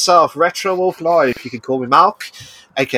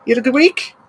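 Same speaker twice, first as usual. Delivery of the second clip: much higher sing-song greeting; high excited greeting. Real, not acted. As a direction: greet her brightly, way up high. Host's high greeting to co-host.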